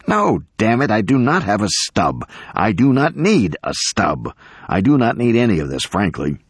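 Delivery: irritated professor insisting word by word; exasperated. Acted. Professor refusing the attorney's demand for a stub, exasperated. Professor snaps at being asked again.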